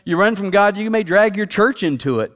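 building preacher emphasis. Acted.

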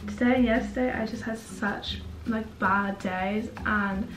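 hoarse from swollen tonsils; sick voice. Real, not acted. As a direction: sore throat, slightly croaky. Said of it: "I sound a bit sick".

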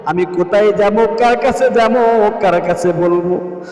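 humble, begging plea to God; pleading prayer. Shown as a demonstration. Preacher demonstrating a humble monajat, pleading. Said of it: "ভিক্ষুকের মতো হাত বাড়াইলাম".

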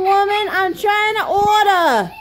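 laughing through it. Pretend. Customer giggling mid-complaint.

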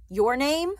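loud, rising interrogation; barked demand. A narrator's reading. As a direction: demand an answer, pitch climbing high. Officer interrogating Ellen.

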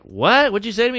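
mock-indignant, high-pitched comeback; indignant challenge. Teenage girls challenging the man who scolded them, mock indignant. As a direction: imitate girls taking offence.

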